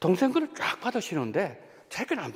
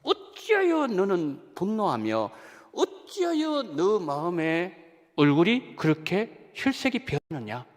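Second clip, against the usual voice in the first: slow, drawn-out scripture quote as God; God questioning Cain; 4 dB louder, slower than usual. Retold or imitated. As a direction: voice God's solemn question, stretching the words. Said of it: "하나님 말씀하셨어요". (가인에게 묻는 하나님처럼 느리게 늘여서)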